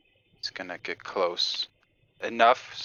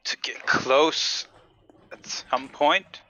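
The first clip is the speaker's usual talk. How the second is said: sneaky whisper; 6 semitones higher, much slower than usual. Acted.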